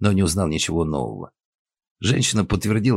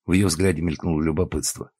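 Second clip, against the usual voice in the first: usual speaking voice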